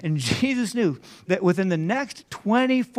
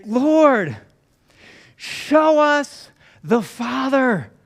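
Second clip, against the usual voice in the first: higher and louder, pleading in frustration; exasperated plea; 3 semitones higher, 3 dB louder than usual. Retold or imitated. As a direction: beg for a straight answer, fed up. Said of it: "we can get that exasperation in Philip's voice".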